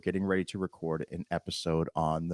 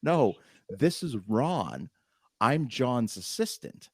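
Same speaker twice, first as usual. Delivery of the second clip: measured correction; 4 semitones higher, slower than usual. Retold or imitated. Voices the assistant on phone.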